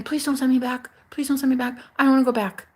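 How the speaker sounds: retold begging to stay, rising to a cry; desperate pleading building to a cry. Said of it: "by saying".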